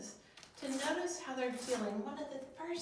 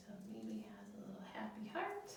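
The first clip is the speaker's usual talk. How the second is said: whisper; 6 dB quieter than usual. Real, not acted. Drawing happy heart for children.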